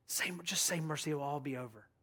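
soft urging from a comrade; quiet pleading. Acted. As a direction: gently beg him to give in.

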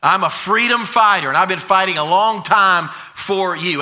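lightly acted apostle's testimony; Paul. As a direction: press each claim home to the congregation. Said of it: "He wants the Galatians to kinda look back".

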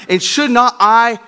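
pleading God. Acted. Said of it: "He says".

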